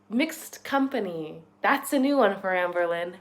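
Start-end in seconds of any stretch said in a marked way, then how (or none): 0.1-1.4 slow savoured phrase. Shown as a demonstration. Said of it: "new word alert".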